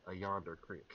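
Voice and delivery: "creek" said as "crick"; Alabama pronunciation. Shown as a demonstration. Player recalling growing up in Alabama, country pronunciation. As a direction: give "creek" a short i, rhyming with brick. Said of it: "you have to master saying crick".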